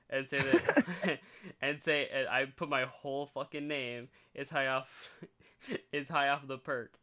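breaking into real laughter mid-sentence; laughing. Real, not acted. Friend recounting prank texts to the group, laughing. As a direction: talk through a bubbling laugh. Cracking up while reading old messages.

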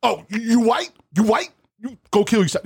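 put-on high, taunting kid voice; mocking the kid again. Mimicking the teen gamer's insult, high and taunting. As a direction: whine it high like a bratty teen. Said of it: "that's all he kept on saying".

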